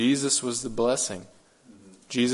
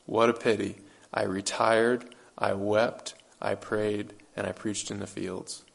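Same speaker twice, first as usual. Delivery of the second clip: understated sorrow. Retold or imitated. Preacher quotes Whitfield's response to the sermon, understated sorrow.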